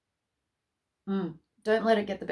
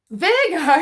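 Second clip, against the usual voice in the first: laughing shout; 7 semitones higher, 10 dB louder, much faster than usual. Real, not acted. Laughing calling out the sign.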